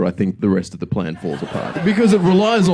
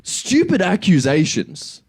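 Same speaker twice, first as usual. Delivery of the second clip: usual speaking voice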